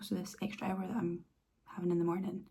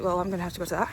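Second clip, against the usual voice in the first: excited self-talk; 9 semitones higher, faster than usual. Retold or imitated. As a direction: talk yourself into going, pitch climbing. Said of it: "I was like".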